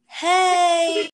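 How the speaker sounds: loud, high cheerful hey; excited greeting. Real, not acted. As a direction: burst into the greeting with a laugh. Podcast intro greeting.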